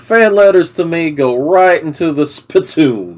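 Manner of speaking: lightly voiced Wild West lawman; Jake Marshall. Cowboy officer warning about fan letters, mild Western role-play.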